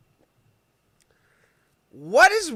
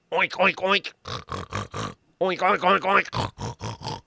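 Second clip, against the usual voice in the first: pig oinks; 2 semitones lower, 3 dB quieter, slower than usual. Acted. Imitating a pig.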